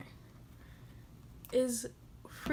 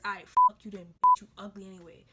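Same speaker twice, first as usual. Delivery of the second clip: mock cursing out; 3 semitones lower, 6 dB louder, faster than usual. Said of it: "curse them out".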